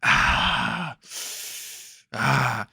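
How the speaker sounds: drawn-out, half-hearted "ah" screams; mock scream of pain. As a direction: imitate someone screaming on the ground. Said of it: "he was on the ground screaming".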